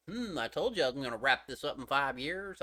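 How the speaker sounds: mock author voice with a made-up accent; trolling creator in an invented accent; Oda in put-on accent. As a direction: put on a silly accent, swooping on the opening. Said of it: "I'll do that accent for Oda".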